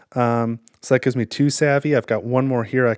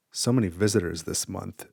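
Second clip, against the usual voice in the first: deep hollow voice; 3 semitones lower, 6 dB quieter than usual. Acted. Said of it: "he says in a deep, hollow voice".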